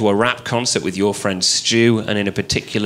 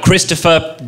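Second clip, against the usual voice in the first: mock mum calling; 6 semitones higher than usual. Mum scolding child in cart.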